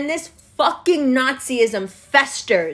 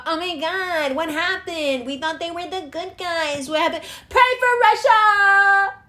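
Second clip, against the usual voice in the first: whiny hammed-up dismay; mock panic; 5 semitones higher than usual. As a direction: parody the shocked public. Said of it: "you're all gonna go".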